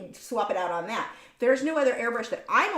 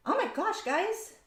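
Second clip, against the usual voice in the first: overwhelmed; 9 semitones higher than usual. Real, not acted. Streamer stunned by viewers' gifts, overwhelmed. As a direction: voice lifts high, close to tears. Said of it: "I'm so going to cry".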